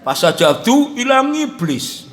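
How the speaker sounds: slow "Fasajadu ilang iblis" with the ain dropped; mispronounced Arabic. Shown as a demonstration. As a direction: say "ilang iblis" slowly, swallowing the ain as a plain vowel. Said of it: "Ain nggak bisa kan?".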